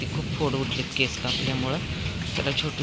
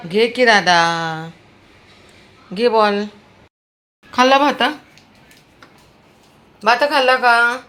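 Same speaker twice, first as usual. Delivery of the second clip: high loud coaxing; coaxing the dog; 7 semitones higher, 10 dB louder than usual. Real, not acted. Owner coaxing her sick dog to eat his rice, high and loud. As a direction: coax him to take the ball and eat, high and loud.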